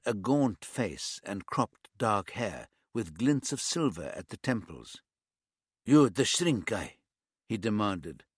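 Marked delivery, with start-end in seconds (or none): 5.8-7.0 put-on light East European accent, blunt demand; a hint of an East European tough. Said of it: "His accent was some sort of East European".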